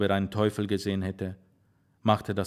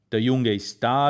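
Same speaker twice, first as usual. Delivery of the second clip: louder, excited shout of the news; calling out; 3 semitones higher, 7 dB louder than usual. A narrator's reading. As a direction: call it out to the whole room. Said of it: "rief nun Großvater". (Großvater ruft laut und freudig die Nachricht)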